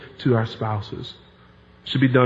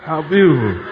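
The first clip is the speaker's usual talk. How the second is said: modern admiring. Shown as a demonstration. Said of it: "We might say".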